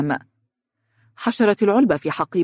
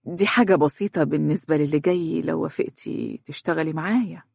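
gentle. Acted. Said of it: "برقة وقال". (برقة وهدوء)

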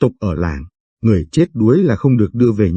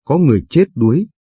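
higher and faster, panicked cry for help; the peak of the alarm, rushed and pitched up; frantic shout; 5 semitones higher, faster than usual. Acted. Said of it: "Chị gào lên". (hét hoảng hốt, giọng cao và nhanh)

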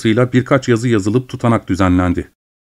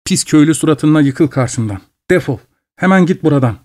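shouted; 4 semitones higher than usual. Acted. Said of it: "diye bağırdı".

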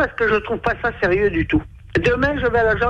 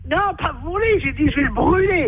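higher correction through a megaphone; over a PA system; 6 semitones higher than usual. Real, not acted. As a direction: insist into the megaphone. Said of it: "on parle dans le mégaphone".

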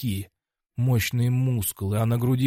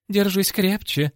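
high, drawn-out cry; urgent call; 9 semitones higher, slower than usual. Acted. Cornerman urges the fighter to hold on, high urgent call. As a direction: call out slowly in a much higher pitch.

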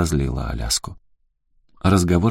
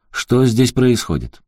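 строгий полицейский; 6 semitones higher, 4 dB louder, slower than usual. Acted. Полицейский заглядывает в окно.

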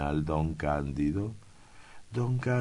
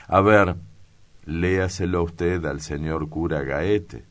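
sharp order; 6 dB louder than usual. Acted. Governor orders clerk to read.

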